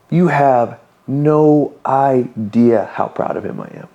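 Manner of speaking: retold fatherly rebuke, drawn out word by word; slow, emphatic. Dad telling son he is equally proud of his brother, slow and emphatic. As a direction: spell it out slowly and deliberately.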